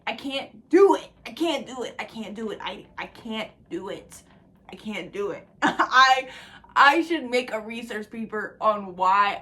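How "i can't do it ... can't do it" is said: fading refusal. Real, not acted. Refusing to hug, repeated.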